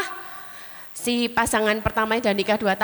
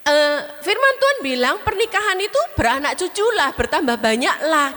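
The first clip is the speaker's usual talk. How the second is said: Pak Roni preaching; 2 semitones higher than usual. Retold or imitated. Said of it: "Dibilang Pak Roni gini".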